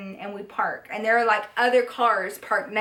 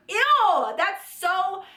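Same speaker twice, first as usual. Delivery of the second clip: higher ew, then a very slow drawn-out nasty; disgusted; 6 semitones higher, much slower than usual. Real, not acted. Recalling the date's request to viewers, slow disgusted drawl. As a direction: drag it out with pure disgust.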